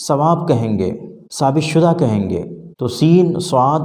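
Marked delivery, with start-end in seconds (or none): 0.1-0.9 ثواب said with a plain s; plain s sound. Shown as a demonstration. Teacher showing students the Urdu ثواب. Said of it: "سا کو عربی کی طرح".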